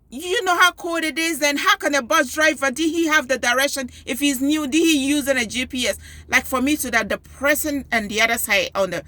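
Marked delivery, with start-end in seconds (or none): 0.1-6.0 high-pitched, indignant retold rant on the phone; angry rant. Upset mother ranting at the school front desk, high-pitched. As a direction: fire questions up high like an upset parent. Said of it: "me going like".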